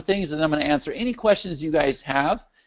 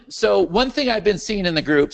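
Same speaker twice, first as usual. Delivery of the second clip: hoarse voice; 3 semitones higher than usual. Real, not acted. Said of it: "sorry, I'm losing my voice".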